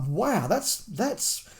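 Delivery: retold amazement, drawn out; stunned reaction. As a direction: let the shock stretch out. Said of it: "And that was like".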